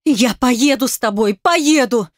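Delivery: rising fierce insistence; angry. A narrator's reading. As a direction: spit it at her father. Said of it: "цедила я зло".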